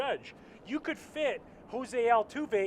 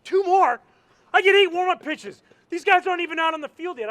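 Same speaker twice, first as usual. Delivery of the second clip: high, loud outraged yell at the umpire; furious retold yell; 12 semitones higher, 13 dB louder than usual. Pitcher snapping at the umpire over warm-ups, loud outraged yell. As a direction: snap back at him, all-out indignant. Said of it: "and I snapped".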